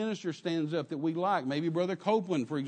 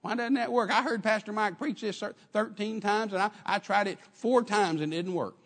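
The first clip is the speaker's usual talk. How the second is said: complaining churchgoer; 6 semitones higher than usual. Retold or imitated. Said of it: "then you wonder why".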